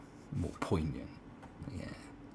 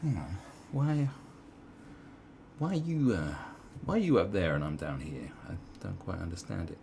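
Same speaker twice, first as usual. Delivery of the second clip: imagined retort. Retold or imitated. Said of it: "I'd be like".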